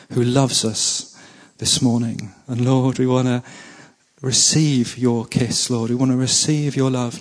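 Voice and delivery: earnest, intimate prayer to God; spoken prayer. Real, not acted. Pastor prays aloud.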